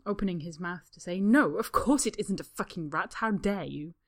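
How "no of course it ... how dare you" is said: indignant. Acted. Draco's indignant outburst.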